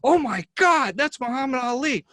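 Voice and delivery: high, loud squeal of recognition; starstruck gasp. Retold or imitated. Woman at the bus stop spotting the champ, squealing. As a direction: shriek it like a starstruck fan. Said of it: "and looks and goes".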